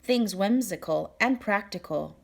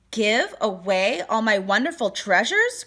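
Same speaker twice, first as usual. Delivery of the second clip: outraged cry; 4 dB louder than usual. Acted. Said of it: "cried the king".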